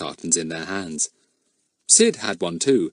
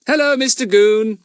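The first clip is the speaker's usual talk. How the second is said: polite; 13 semitones higher, 6 dB louder than usual. A narrator's reading. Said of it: "said Fatty politely".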